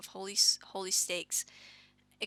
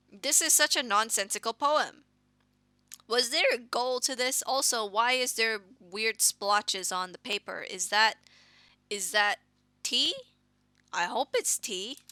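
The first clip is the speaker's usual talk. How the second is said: louder, scornful disbelief; indignant; 2 semitones higher, 6 dB louder than usual. Acted. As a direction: scoff at the poem. Indignant reaction to the poem.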